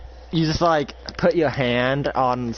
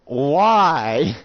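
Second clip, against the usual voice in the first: loud, pitched-up wail of "why"; mock tearful protest; acted crying; 3 semitones higher, 5 dB louder than usual. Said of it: "he just starts crying".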